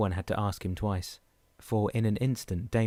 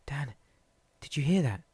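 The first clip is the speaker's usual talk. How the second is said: raised, higher call over the storm; hollering; 6 semitones higher than usual. Acted. Malou hollers to Dan over the thunder, raised and higher. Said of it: "Malou hollered against the ... thunder".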